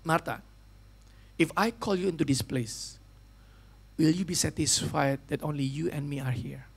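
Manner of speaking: low, soft and slow, gently calling her name; a tender, quiet divine call; voice of the Holy Spirit. Acted. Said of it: "Roh Kudus". (suara Roh Kudus, lembut, pelan, rendah)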